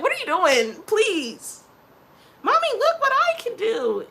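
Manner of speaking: put-on high, loud whiny kid; mock kid voice. Mom mimicking her kid begging for attention, shrill. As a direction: play the little show-off begging.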